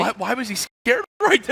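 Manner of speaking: high, loud laugh through words; laughing while asking. Real, not acted. Laughing at a player's panic.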